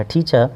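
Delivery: "ٹیچر" as the teacher's model, the final r left silent; correct British pronunciation. Shown as a demonstration. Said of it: "جو صحیح تلفظ بنتا ہے English کا".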